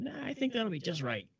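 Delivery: put-on cocky young self; confident dismissal. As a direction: wave the worry away. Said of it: "And I said".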